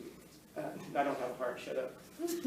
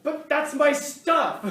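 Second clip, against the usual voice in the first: very slow, high, loud whine; imitating a possessive owner, slow, high and loud; petty owner whine; 11 semitones higher, 11 dB louder, much slower than usual. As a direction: stretch the complaint out like a spoiled child.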